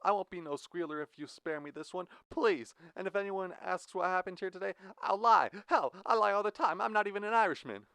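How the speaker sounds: put-on high, fast begging in an Irish accent; Irish accent pleading. Jack begging Blue in a fake Irish accent. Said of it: "The Irish accent dropped from Jack's mouth".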